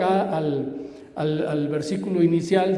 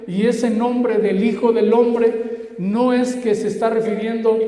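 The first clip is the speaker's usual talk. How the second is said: emphatic, raised preaching voice; 3 semitones higher, 3 dB louder, slower than usual. Real, not acted. Preacher explaining the Son of Man's title to the congregation, emphatic preaching. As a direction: preach it out firmly.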